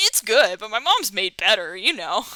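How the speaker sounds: loud blunt it's good dismissal; wrong take. Shown as a demonstration. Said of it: "Not like".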